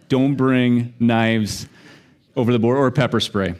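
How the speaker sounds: slow, spelled-out warning. Shown as a demonstration. Warning the congregation, slow and deliberate. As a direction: drag each word out as a warning. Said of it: "mock warning to audience".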